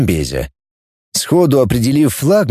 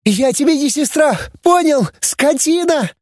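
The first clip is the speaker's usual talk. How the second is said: high furious outburst; raging; 13 semitones higher than usual. A narrator's reading. Girl raging at her traitor brother, furious high outburst. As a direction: spit the insult out in rage. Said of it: "бушевала Диди".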